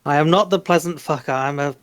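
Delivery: slips into "pleasant fucker", stumbling; botched tongue twister. Shown as a demonstration. Guest stumbles through the tongue twister on request, fumbling. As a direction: trip over "pheasant plucker" and give up. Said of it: "But try again".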